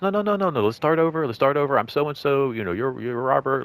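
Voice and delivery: pushy insistent customer. Retold or imitated. Customer cutting off the clerk to restart, pushy and insistent. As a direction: brush off his objection and steamroll ahead.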